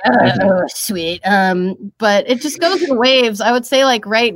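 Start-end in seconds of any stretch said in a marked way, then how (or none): 0.1-1.2 cartoon character catchphrase voice; Cartman. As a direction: start louder, then drop it low. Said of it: "super into my Cartman impression".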